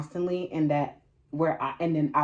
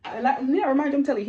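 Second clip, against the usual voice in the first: laughing through it; 8 semitones higher, 5 dB louder, faster than usual. Real, not acted. Recalling crying during intimacy.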